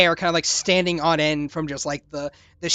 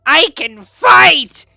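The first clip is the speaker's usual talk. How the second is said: slow, much louder and higher on fight; triumphant creature; 4 semitones higher, 10 dB louder, slower than usual. Acted. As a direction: bellow it like a battle cry. Creature declaring it can fight.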